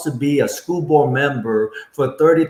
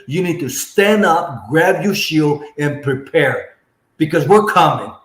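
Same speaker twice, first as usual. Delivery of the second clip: rally-style preaching, punching each line; rousing campaign speech; 2 semitones higher than usual. Acted. Candidate rallying parents against politicians, preaching hard.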